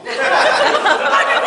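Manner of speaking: loud, high whooping laugh; a sudden shrieking laugh; high burst of laughter. Real, not acted. Laughs at own story.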